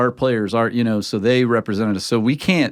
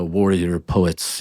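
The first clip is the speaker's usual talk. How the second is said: brief, slow attempt at a Scottish accent; poor Scottish accent; 4 semitones lower, much slower than usual. Shown as a demonstration. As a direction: try a light Scottish lilt, not very convincingly. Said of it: "that was my Scottish accent".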